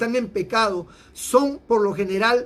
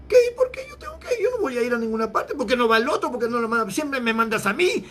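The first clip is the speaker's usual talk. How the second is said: mock rebellious child; 2 semitones higher, faster than usual. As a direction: imitate a sulky child refusing to go. Mocking children's backtalk to parents.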